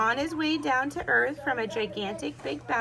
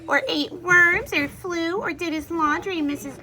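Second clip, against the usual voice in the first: a scolding mother, louder and higher; 5 semitones higher, 4 dB louder than usual. A narrator's reading. Mother scolds Skippy, exasperated scolding. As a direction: scold the kitten, listing his crimes. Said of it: "she scolded".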